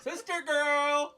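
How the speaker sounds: put-on high, loud, slow sister girl; sassy hype. Cheering her friend on, high, loud and drawn out.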